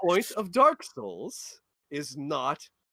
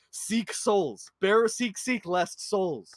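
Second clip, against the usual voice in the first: mock Emerald Herald; 5 semitones higher, much slower than usual. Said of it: "the Emerald Herald that's like".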